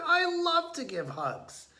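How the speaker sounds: very high, squeaky creature voice; a cheerful skunk eager to hug. A narrator's reading. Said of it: "said the skunk".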